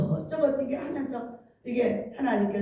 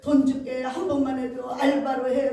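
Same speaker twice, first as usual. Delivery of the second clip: begging. Retold or imitated. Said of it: "싹싹 빌어서".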